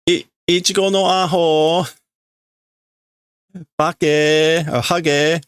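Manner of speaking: put-on high little-girl taunt; childish insults. Little girl calling Ichigo names, bratty high voice. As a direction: tease him like a bratty kid.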